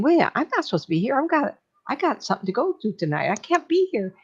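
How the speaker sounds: upset. Retold or imitated. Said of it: "he's so upset".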